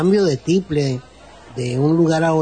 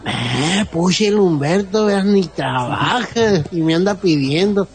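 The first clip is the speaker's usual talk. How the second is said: mock complaint; 2 semitones higher than usual. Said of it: "que me quiere pedir prestado dinero".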